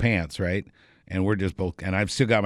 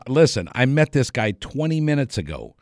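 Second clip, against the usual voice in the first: higher-pitched mock-earnest pleading; protesting innocence; 6 semitones higher than usual. Comedian explaining himself to the trooper, protesting. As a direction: imitate someone insisting on his innocence, voice raised in pitch.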